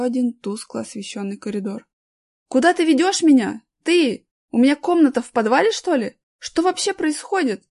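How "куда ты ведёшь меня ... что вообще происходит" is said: high, loud, alarmed questions; frightened shouting. A narrator's reading. Boy dragged into a basement by a guard, shouting in fright. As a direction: shout in alarm, pitch jumping up. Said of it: "кричал Аркаша, испуганно оглядываясь".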